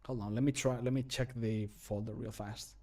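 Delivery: ordinary talk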